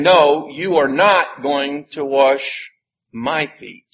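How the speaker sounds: slow, leaning hard on "you" and "my"; slowed, firm refusal with "you" and "my" weighted; emphatic you and my. Retold or imitated. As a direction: stress "you" and "my", slowly. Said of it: "because they're emphatic".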